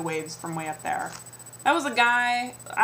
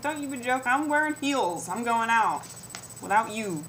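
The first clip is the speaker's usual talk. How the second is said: pretend retort. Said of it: "I didn't say it quite like that".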